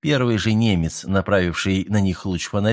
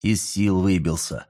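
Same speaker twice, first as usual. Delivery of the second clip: calm; 3 semitones lower than usual. A narrator's reading. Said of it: "спокойно произнёс Андреа".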